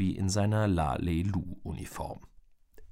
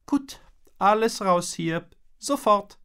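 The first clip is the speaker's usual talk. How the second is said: higher, louder brisk order; bossy mom; 12 semitones higher, 6 dB louder than usual. A narrator's reading. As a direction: Mom herding everyone out. (resolute Mutter, Befehlston)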